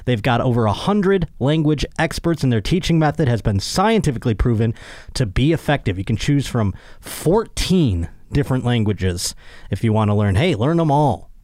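upbeat sponsor read. Acted. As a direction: sell it like a podcast host ad.

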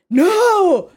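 high, loud, horrified cry; screamed. A narrator's reading. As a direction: scream it in horror. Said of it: "Carrie screamed".

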